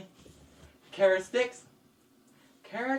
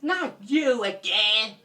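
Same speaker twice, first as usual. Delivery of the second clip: bunny voice; 2 semitones higher, slower than usual. Acted.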